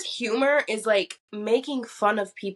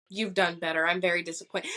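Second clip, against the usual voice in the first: lowered, stern mock verdict; mock disappointed judge; 7 semitones lower than usual. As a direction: play the let-down critic, deadpan.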